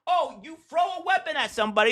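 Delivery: a hint of a sneering leftist; lightly mocking quote. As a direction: toss off their line mockingly.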